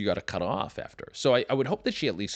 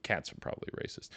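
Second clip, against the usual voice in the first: whispered aside; 4 semitones lower, 12 dB quieter, faster than usual. Real, not acted. Throwaway aside after dog joke.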